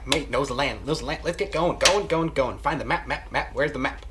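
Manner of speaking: rapid-fire, repeating words in a rush; fast talking. Acted. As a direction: rattle it off, words tumbling over themselves. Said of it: "that's why I'm talking so fast".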